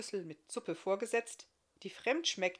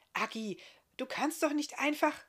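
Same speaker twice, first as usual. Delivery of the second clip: higher, louder motherly scolding; 8 semitones higher, 5 dB louder than usual. Acted. Mother scolding little Agi for climbing on the guest, sharp. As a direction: cut the child off with a sharp reproach. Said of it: "schimpfte Mutter Isme los".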